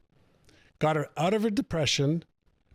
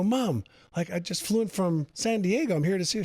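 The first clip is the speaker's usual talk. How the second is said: coaxing son; 5 semitones higher than usual. Retold or imitated. Son coaxing his withdrawn mother.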